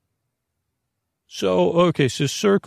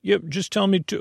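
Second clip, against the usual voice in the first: mock Oprah; 6 semitones higher than usual. Oprah pressing for answer.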